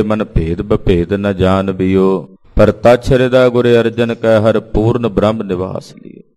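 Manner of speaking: measured recital of sacred verse; verse recitation. Acted. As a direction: recite it line by line as scripture.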